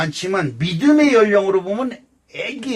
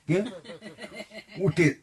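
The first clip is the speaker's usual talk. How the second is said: ordinary talk, nothing marked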